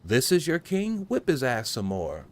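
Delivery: mocking tormentor voice; mocking soldier taunt. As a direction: sneer it out like a cruel guard.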